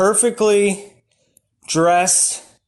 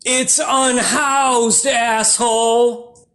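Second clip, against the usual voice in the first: 1 slow snarky retort; 3 semitones higher, much slower than usual. Retold or imitated. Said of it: "And the sign said".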